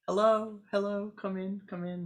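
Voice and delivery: a high, loud bright hello that settles down; the smiling yogi welcoming a visitor; cheery welcome. Acted. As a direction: greet her warmly, high then easing. Yogi welcomes her at the temple.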